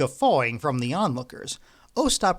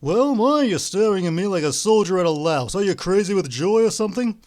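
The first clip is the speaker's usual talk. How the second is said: louder, raised exasperated rebuke; irritated scolding; 5 semitones higher, 6 dB louder than usual. A narrator's reading. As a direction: snap at a dazed partner. Ostap scolds partner.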